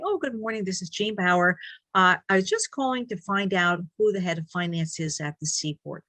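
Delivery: sweet helpful phone voice; Girl Scout voice. Acted. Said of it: "I put on my very friendly voice, so I call it my Girl Scout voice".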